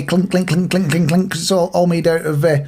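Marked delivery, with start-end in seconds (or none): 0.0-1.3 repeated clinks in an even rhythm; imitating clunking. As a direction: mimic a clanking pottery costume. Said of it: "it's gonna be clunking away".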